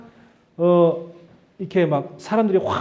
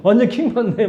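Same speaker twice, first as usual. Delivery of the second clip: higher, louder, giggling through it; playful laughing exasperation; laughing slang; 5 semitones higher, 4 dB louder than usual. Pretend. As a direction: say it with a laugh, amused.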